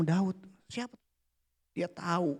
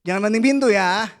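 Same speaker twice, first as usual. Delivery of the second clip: firm warning; 2 semitones higher, 7 dB louder than usual. Real, not acted. Warning, laughing.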